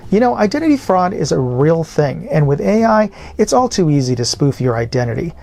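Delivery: usual speaking voice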